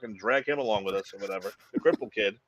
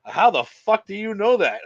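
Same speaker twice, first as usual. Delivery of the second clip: mock shocked; 7 semitones higher, 4 dB louder, slower than usual. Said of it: "And he goes".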